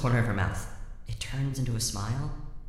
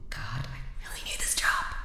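whispered aside. Acted. Inner thought whispered aside.

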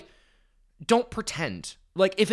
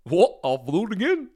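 unrepentant and a bit higher, daring; defiant shrug; 6 semitones higher, 4 dB louder than usual. Retold or imitated. Host mimicking Twyla's unapologetic attitude. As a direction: toss it off like you'd do it all again. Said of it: "Twyla has, Fuck it".

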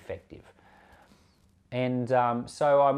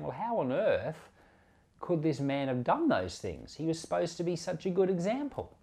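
bewildered question; 5 semitones higher than usual. Retold or imitated. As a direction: voice the crowd's disbelief. Believers puzzled over fallen minister.

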